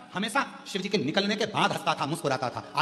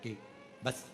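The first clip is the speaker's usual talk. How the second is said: lower-pitched, humble entreaty; pleading demon; 4 semitones lower, 5 dB quieter, much faster than usual. Acted. Tarkasur begging Shiva for mercy, humble pleading. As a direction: plead low, as a devotee begging a boon. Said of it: "तारकासुर कह रहा है, ऐसी करुणा".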